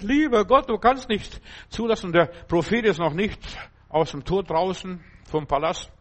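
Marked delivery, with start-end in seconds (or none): 0.0-2.1 pleading prayer. Acted. Prophet prays to God.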